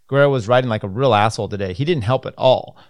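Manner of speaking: fast, loud whiny complaint; whining voice. Retold or imitated. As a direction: whine it like a sore loser. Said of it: "I had to do a whining voice".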